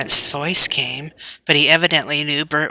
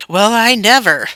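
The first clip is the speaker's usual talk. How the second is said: higher startled outburst; surprised exclaim; 6 semitones higher, 5 dB louder than usual. Acted. Bert seeing the cat on the kite tail, startled outburst. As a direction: blurt it in surprise. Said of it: "ejaculated Bert".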